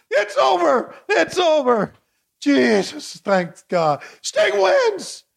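high, jubilant calls; thrilled celebration. Real, not acted. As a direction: cheer the win like a fan. Celebrating the finish.

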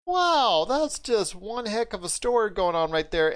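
retold amazement, starting high and easing down; amazed reaction. Host retelling his reaction to the show, amazed. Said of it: "I'm like".

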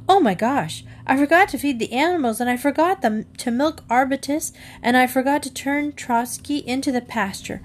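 panicked. Acted. Girl panics about animals.

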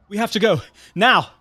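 high, loud urgent command; sharp hurry-up; barked order. A narrator's reading. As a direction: bark it, hitting the last word hard. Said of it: "Giselle barked".

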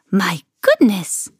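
put-on slow, drawn-out old-woman dismay; concerned old woman. A narrator's reading. Old woman looking round Camilla's room, dismayed. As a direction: stretch it out in kindly concern. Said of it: "with a shake of her head".

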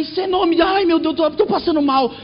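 mock the mother feeling faint; mother in the shaking plane, high panicked cries.

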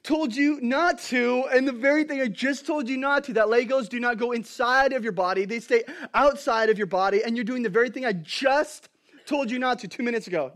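exasperated dad. Retold or imitated. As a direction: scold the kid who ignored you. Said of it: "I'm like".

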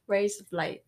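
"blades" as "blites", Australian style, falling end; mock Australian accent. Copying her friend's party-piece, mock Australian accent. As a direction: try an Australian "Razor blades".

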